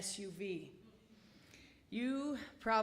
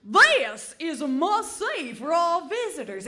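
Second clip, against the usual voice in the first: GPS voice; 4 semitones higher, 9 dB louder than usual. Retold or imitated. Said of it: "Steve would say".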